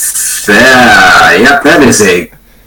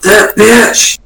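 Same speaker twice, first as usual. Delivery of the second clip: catty; 11 semitones higher than usual. Acted. Catty jab at Janet.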